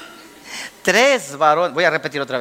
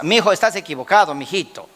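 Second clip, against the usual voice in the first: loving correction; 3 semitones lower than usual. Acted. Pastor's wife tells husband he's mistaken, lovingly. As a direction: let the reproof sink gently. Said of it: "Con todo el amor del mundo te digo".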